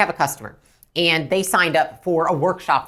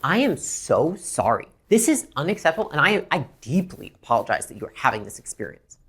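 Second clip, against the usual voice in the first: earnest apology. Shown as a demonstration. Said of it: "So it's like".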